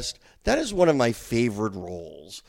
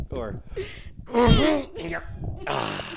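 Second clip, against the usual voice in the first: put-on old man groan; 11 semitones higher than usual. Shown as a demonstration. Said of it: "amazing impression of my grandfather every time I get out of a chair".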